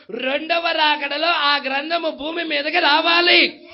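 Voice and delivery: forceful preaching. Acted. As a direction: preach it out, swelling on key phrases.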